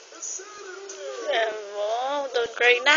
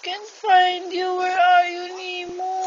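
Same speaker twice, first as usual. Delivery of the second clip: Nemo's dad calling; 4 semitones higher than usual. Acted. Parent voicing Nemo's daddy to a crying child, searching call. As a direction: call out for a lost child, higher pitched. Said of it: "Sabi ng daddy niya".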